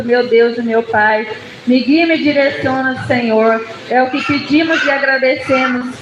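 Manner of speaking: steady, flowing spoken prayer; earnest prayer. Real, not acted. Preacher asking God to guide her before the sermon, earnest prayer. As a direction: address God in a continuous, humble appeal.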